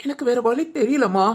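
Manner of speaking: choked, halting words through tears; husband breaking down to his wife, mildly tearful. Acted. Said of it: "என்ன அழுகுறீங்க?".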